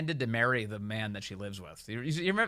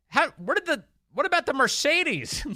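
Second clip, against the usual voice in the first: high, raised mock woman reporter; mock yell; 12 semitones higher, 4 dB louder than usual. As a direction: call out the last question across the room. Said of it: "she yells at the end".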